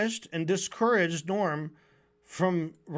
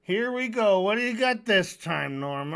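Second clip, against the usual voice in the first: eye-rolling mock; 3 dB louder than usual. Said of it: "roll your eyes and say".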